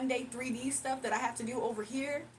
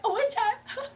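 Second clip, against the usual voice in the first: high, louder weepy question; mock tearful; 9 semitones higher, 5 dB louder, slower than usual. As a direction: blubber the question as if it breaks you. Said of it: "I'll just cry".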